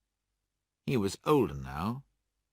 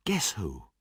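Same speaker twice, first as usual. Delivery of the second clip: playful whispered tease; husband whispers a playful riddle to his wife. Acted. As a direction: lean in and whisper it teasingly.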